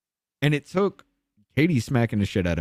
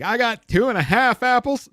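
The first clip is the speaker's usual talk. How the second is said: much higher, louder dopey voice; mocking a dim classmate; 12 semitones higher, 5 dB louder than usual. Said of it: "The, the person next to me is like".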